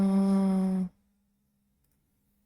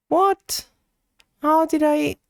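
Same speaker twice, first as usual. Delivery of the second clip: sudden jump much higher and louder; shocked what; 7 semitones higher, 4 dB louder than usual. Real, not acted. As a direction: yelp it in disbelief. Shocked by a chat message.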